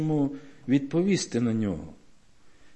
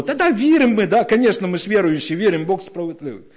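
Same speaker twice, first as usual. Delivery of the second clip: glib mock reply; 4 semitones higher, 4 dB louder, faster than usual. Mocking glib believers' reply.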